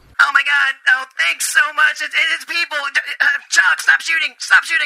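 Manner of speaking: high, excited goblin voice, squealed out fast.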